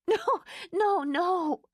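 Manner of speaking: laughing. Acted. Laura laughing hysterically.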